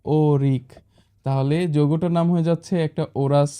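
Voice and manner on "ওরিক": ওরিক set apart with firm emphasis; emphasised term. Shown as a demonstration. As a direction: give ওরিক on its own, firmly. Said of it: "বেশি সংখ্যক ব্যবহার করলে".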